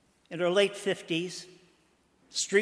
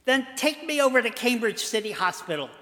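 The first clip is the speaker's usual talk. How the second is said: pleading; 5 semitones higher, faster than usual. Acted. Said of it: "she pleaded".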